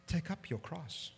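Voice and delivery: hushed "Take up your cross". Shown as a demonstration. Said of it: "He's saying".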